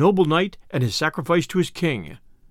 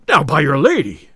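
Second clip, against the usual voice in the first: loud, sudden outburst; hasty cry; 6 dB louder than usual. A narrator's reading. Tinker learns his companion was Robin Hood, crying out hastily. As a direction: cry out at the unwelcome news. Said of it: "cried the tinker hastily".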